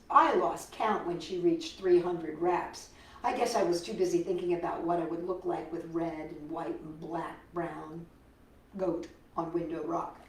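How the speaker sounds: put-on lively storybook narration for kids; reading to children. A narrator's reading. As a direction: read it like a picture book to little ones. Reads picture book aloud.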